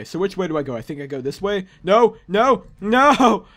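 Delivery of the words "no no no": louder, higher repeated protest; dismayed cry. Real, not acted. Player about to fall back to Earth, dismayed shouting. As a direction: cry out, building to the last word. Falling off clouds in game.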